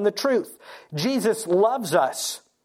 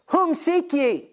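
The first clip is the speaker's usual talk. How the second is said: higher, slow, solemn question as Jesus; 8 semitones higher, slower than usual. Acted. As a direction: ask it slowly like a calm, commanding Jesus. Jesus faces the arresting soldiers.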